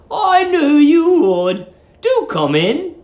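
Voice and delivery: put-on high, slow, sugary old lady; sweet landlady. Landlady luring the young lodger, high sugary coo. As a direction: coo at him like a doting landlady.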